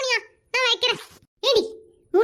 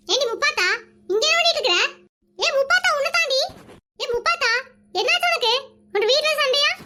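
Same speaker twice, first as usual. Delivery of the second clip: higher pitched call across the street; 4 semitones higher than usual. Acted. Woman calls out to her neighbour Muppatha, raised calling voice. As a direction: hail her from a distance, pitch up.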